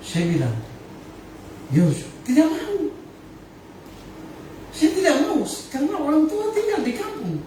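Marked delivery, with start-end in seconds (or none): 1.7-7.4 raised voice refusal. Retold or imitated. Retold refusal of a college offer.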